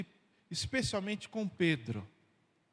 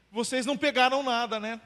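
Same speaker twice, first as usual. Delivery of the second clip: gently teasing, higher voice as Jesus; knowing rhetorical question; 6 semitones higher, 7 dB louder, faster than usual. Pretend. Pastor voicing Jesus to the fishermen, knowing question. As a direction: ask it already knowing the answer. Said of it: "como se Jesus estivesse falando assim".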